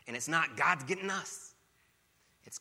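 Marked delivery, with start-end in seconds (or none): 0.6-1.5 loud, higher panicky plea; mock fearful cry. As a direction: blurt it out in alarm. Mock wrong prayer, acted out.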